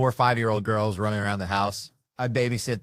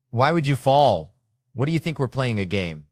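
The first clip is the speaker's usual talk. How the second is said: mildly indignant wife, raised voice; mad wife; 4 semitones higher, 5 dB louder than usual. Acted. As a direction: act out an annoyed wife demanding answers. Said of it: "She gets mad at you".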